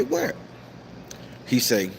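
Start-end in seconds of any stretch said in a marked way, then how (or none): 0.0-0.3 retold surprise. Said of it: "I say".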